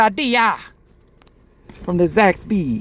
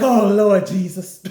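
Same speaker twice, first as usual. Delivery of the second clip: slow, laughing "Oh, Lord Jesus"; comic overwhelmed plea to heaven; laughing despair; 4 semitones higher, 5 dB louder, slower than usual. Retold or imitated. Overwhelmed at the drive-thru menu.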